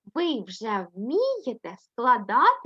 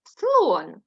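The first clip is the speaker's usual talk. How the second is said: Слон said loud and firm; teacher completes the word; completing the word; 5 dB louder than usual. Shown as a demonstration. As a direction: finish the syllable into Слон.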